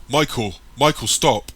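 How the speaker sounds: loud calls to stop him; shouting. A narrator's reading. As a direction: yell to halt the runner. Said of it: "Jason shouts".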